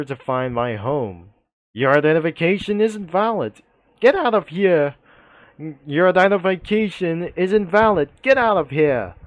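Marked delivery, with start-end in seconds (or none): 1.7-9.1 police officer yelling. Retold or imitated. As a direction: bark the invalid ID at him like a fed-up cop. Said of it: "yells the police officer".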